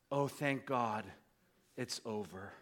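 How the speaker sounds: soft, low relieved mutter; imitating a woman sighing with relief under her breath. Woman relieved the silence is over, mutters under breath. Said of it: "under her breath".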